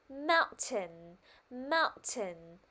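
"Mountain" with the first syllable stressed. Shown as a demonstration. Teacher reminding pupils of the stress, measured "Mountain". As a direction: lean on the start of each "Mountain". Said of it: "nhớ nhấn vào âm tiết mount".

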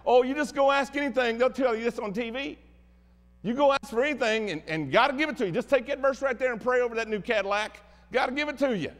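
sarcastic impression of a televangelist; mock TV preacher. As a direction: ham up a TV preacher promising riches. Mocking prosperity preachers on TV.

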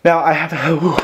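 panting between words; winded, catching his breath. Real, not acted. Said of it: "I'm out of breath".

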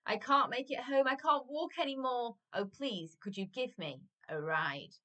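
high plaintive start, sinking at the end; mock crying plea. A narrator's reading. Small boy begging the giant for a ride, mildly tearful. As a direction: plead like a worn-out little boy, lightly acted. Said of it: "and he cried".

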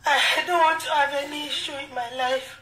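tearful, halting plea; weepy, restarting between sobs; real crying. Real, not acted. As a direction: protest through real sobs. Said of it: "heartbreaking to see her cry".

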